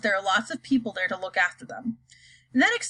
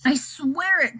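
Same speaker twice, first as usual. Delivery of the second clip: pleading cry; 5 semitones higher, slower than usual. Acted. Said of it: "cried poor Shuckworth".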